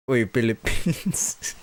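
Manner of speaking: slow, drawn-out mock Filipino accent. Streamer greeting Filipino viewers, slow mock Filipino accent. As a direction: stretch the words in a light Filipino accent. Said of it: "that's your one accent for the night".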